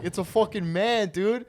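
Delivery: high, loud retold hollering; hilarious disbelief. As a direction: holler to wake your buddy, delighted. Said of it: "I keep repeating".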